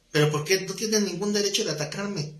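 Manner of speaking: mock indignation; indignant church member. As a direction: imitate an offended congregant confronting the pastor. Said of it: "se enojaba con el pastor".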